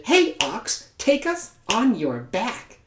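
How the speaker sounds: high eager call to the ox; eager little animals shouting hey. Acted. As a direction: call up to him, excited. Animals calling to the ox.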